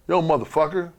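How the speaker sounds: high, loud yelled greeting; angry yell. Retold or imitated. Yoko yelling at Dean boarding the bus, loud. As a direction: bark it like a furious wrestler. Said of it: "and Yoko said, he said".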